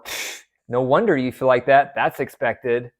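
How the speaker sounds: light mock sarcasm with a scoffing pfft; sarcastic remark. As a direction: scoff at the partner, half-hearted. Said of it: "Those are sarcastic comments".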